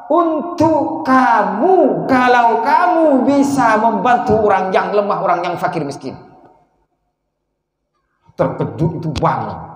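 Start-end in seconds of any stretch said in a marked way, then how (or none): 0.1-6.1 high, very slow solemn answer; voice in a dream. Acted. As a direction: draw out "kamu" like a heavenly voice.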